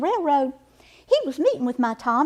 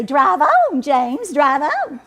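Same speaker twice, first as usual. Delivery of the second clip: mimicking the haughty lady; 3 semitones higher, 6 dB louder, much slower than usual. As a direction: ham up the snooty lady, laughing. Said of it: "He'll mimic that lady and say".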